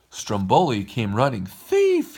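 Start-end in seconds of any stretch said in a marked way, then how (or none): 1.5-2.2 very high, loud accusing cry. Acted. Stromboli catches them at the cage and cries out, very high and loud. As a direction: bellow the accusation. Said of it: "he cried".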